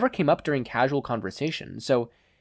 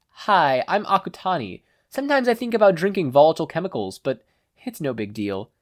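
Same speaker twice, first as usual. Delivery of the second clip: put-on higher, dreamy odd-kid voice; Akutani impression; 5 semitones higher, 3 dB louder than usual. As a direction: play it casual and strange. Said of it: "voice of Mikumo Akutani".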